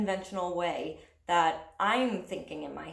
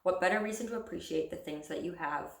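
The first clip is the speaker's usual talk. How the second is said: even recital, each line falling softly away; poem reading; 3 dB quieter than usual. Acted. Poet reading about growing up to viewers, poem reading.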